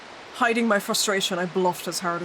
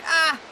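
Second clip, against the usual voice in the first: demo scream; 6 semitones higher than usual. Shown as a demonstration. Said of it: "always spell screams as".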